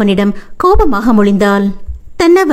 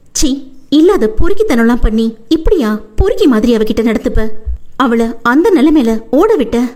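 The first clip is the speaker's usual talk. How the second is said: angry scolding; 4 semitones higher than usual. Acted. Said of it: "என கோபமாக ஆதியை அடிக்க".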